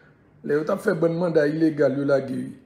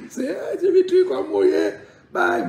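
laughing squeal; 14 semitones higher, 3 dB louder than usual. Real, not acted. Laughing, cracking voice.

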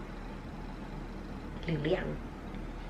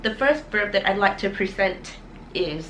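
slow announcing; much slower than usual. Acted. Slow presentation of first verb.

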